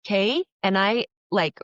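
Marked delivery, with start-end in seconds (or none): 0.0-0.4 louder, higher snap back of chill out; pushing back, voice raised in mock warning. Talking back to angry sister on phone, raised voice. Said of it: "raise my voice to start talking back".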